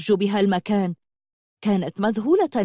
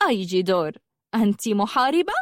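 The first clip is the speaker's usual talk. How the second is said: mocking; faster than usual. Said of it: "فابتسمت وقالت بتهكم".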